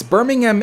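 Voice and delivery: "Birmingham" as BUR-ming-um; UK pronunciation. Shown as a demonstration. He concedes the UK way, "Birmingham" with swallowed "-um". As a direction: drop the "ham" in "Birmingham" to a weak "um". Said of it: "if you're in the U K".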